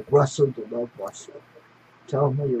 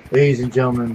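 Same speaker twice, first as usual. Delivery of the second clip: ringmaster; 5 dB louder than usual. Pretend. Stream opening, showman announcement.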